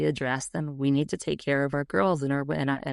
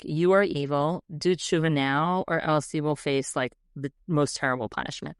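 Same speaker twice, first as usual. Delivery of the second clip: stern mock moralizing. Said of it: "very classic Jewish Mussar".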